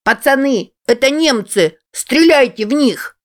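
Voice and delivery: put-on high, excited little boy's battle cry; a kid yelling orders in a war game; boy shouting to friends. A narrator's reading. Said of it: "закричал друзьям".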